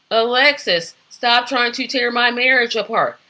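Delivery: lightly acted soap opera wife; a touch of bad TV melodrama; Crystal. Mimicking terrible soap dialogue as Crystal confronts Alexis, mildly melodramatic. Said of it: "And the acting was like this".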